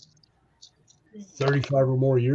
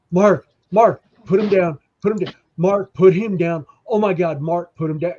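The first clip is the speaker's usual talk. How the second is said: retold urgent pleading; 3 semitones higher, 4 dB louder than usual. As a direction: beg a friend to drop the guy, loudly. Triple H pleads, Undertaker choking man.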